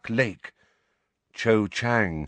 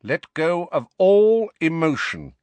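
raised, commanding cold voice; 7 semitones higher, 6 dB louder than usual. A narrator's reading. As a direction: order it firmly and coldly. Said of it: "said Snape's cold voice".

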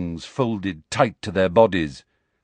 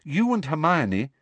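cool; 11 semitones higher than usual. A narrator's reading. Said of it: "she said coolly".

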